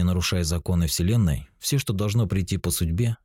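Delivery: normal talking voice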